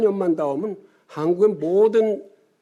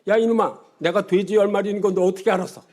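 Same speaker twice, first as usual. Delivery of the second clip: angry outburst; 3 semitones higher, 3 dB louder than usual. Acted. Friend caught out over his ten pigs, angry outburst. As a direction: blow up at him, half laughing. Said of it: "화를 버럭 내면서".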